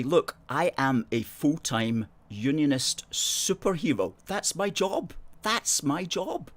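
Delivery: high, drawn-out comic proclamation; mock-heroic retort. Host answering his critics about his job, mock-heroic insistence. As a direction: declare it slowly like a hammed-up superhero.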